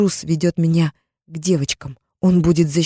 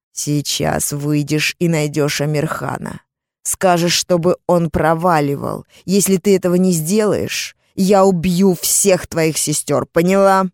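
menacing threat; slower than usual. Acted. Captor threatening the girl, slow and menacing. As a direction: spell out the threat.

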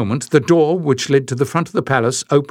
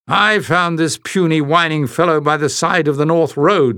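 roared report; 5 semitones higher than usual. Acted. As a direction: announce it like a rough warrior. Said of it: "the giant woman roared".

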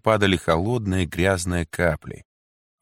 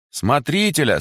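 calling out; 8 semitones higher than usual. A narrator's reading. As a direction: summon the warden. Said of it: "кричали женщины". (громкий зов)

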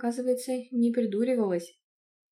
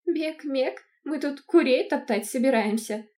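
higher mocking imitation; mocking mimicry; 5 semitones higher, 5 dB louder, slower than usual. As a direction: mimic him, teasing and silly. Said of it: "и передразнила". (передразнивает)

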